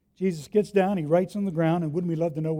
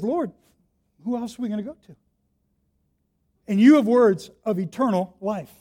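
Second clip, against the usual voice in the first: fervent reply; 4 dB louder than usual. Acted. Peter answers Jesus again.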